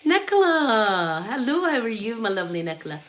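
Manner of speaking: stretched-out hello across the room; calling out a greeting. Retold or imitated. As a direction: hail her cheerily across the ward. Neighbour greets patient returning from smoke.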